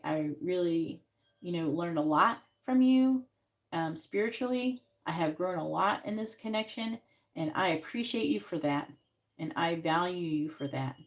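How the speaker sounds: calm sincere. Shown as a demonstration. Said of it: "you have to talk like this, how I'm saying it".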